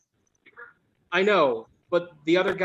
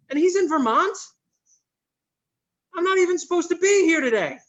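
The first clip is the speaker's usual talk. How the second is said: louder, higher, swearing in disbelief; furious rant; 7 semitones higher, 4 dB louder than usual. Acted. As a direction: blow up at the news. Phone call, boss went to Vermont.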